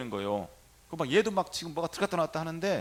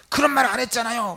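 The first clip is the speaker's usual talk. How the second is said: high, loud mimicked outburst; angry retort; 7 semitones higher, 9 dB louder than usual. Patient snapping at the priest who treats her, angry. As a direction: throw it back in annoyed protest. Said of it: "막 화를 내는 거야".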